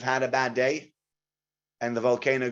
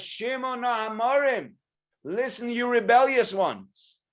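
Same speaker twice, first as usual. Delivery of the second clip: rebuke; 9 semitones higher, slower than usual. Acted. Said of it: "Moshe Rabbeinu lost his cool".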